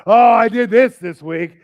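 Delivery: loud, slowed mock brag about serving; a mocking bragger who serves loudly; boastful churchgoer. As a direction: imitate a showy, self-praising churchgoer. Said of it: "we suffer loudly and serve loud".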